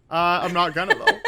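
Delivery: choking a little. Real, not acted. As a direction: voice catching from choking. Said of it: "did you just wrong pipe".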